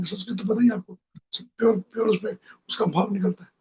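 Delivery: words ringing with an echo. Real, not acted. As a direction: voice echoing back. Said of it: "इको आ रहा है आवाज में ना?".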